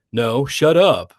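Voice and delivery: drawn-out, mildly mocking sibling retort; tween sibling bickering. Gretel talking to her brother, lightly mimicked bickering. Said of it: "couple of tweens arguing".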